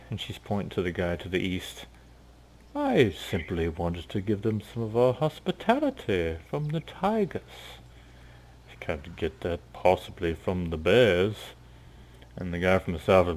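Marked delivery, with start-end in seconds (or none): 2.7-11.5 lightly voiced smug host; a hint of silky tiger pride; tiger leader. Tiger leader answers the bear woman, smug.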